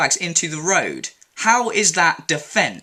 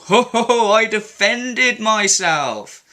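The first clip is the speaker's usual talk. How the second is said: scoffing laugh, then her words drawn out slowly; mocking laugh; 4 semitones higher, slower than usual. Commenter scoffs at her self-defence claim, mocking and slow. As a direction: laugh her excuse to scorn.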